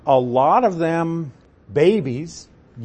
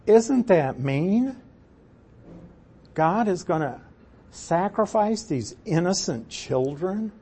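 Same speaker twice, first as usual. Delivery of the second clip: tag doubting listener; 3 semitones higher than usual. Pretend. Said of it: "we might be sitting here thinking".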